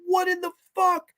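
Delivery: hammed-up shocked "what"; incredulous. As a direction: squeak it out in shock. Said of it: "I'm like".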